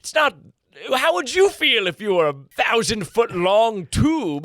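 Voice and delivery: sandworm puppet voice. Pretend.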